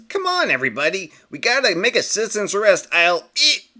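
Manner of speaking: a fussy bystander calling for arrest; eager citizen. Acted. Concerned citizen rallying others.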